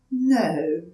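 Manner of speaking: put-on young turtle politely asking a stranger for help; timid little turtle. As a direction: ask shyly, a little scared. Franklin replies.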